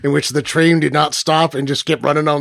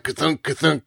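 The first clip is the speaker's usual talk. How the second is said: heavy clunk; 5 dB quieter than usual. Shown as a demonstration. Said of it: "machines that make that sound … I'm making it anyway".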